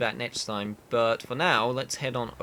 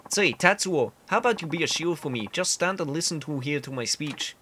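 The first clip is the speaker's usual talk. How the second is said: earnest candidate in bad Canadian; awful Canadian accent; 3 semitones higher than usual. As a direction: campaign talk with a badly faked Canadian accent. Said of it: "I know the accent is awful".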